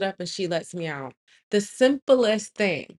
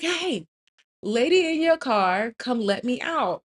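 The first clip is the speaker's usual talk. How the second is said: high, re-enacted call for attention; 5 semitones higher than usual. Trapped woman to the lady in the car, re-enacted calling out. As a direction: imitate calling to someone at a distance.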